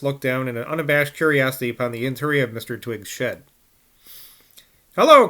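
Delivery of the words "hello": high, loud shrill greeting; shrill cry. A narrator's reading. Boy shouting at old man, shrill. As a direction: call out shrilly like a cheeky boy. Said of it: "cried Jackie in a shrill voice".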